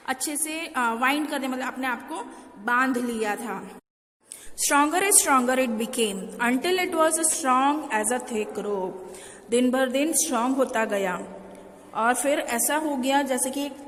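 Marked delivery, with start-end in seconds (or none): 4.6-8.9 slow, careful read-aloud of the English text; slow classroom story reading. Acted. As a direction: read each phrase slowly for the class. Teacher reads English story slowly.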